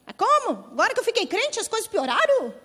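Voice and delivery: high-pitched, incredulous protest; indignant complaint. Acted. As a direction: whine it like a baffled new believer. Acting an indignant new believer. (protesto indignado e agudo)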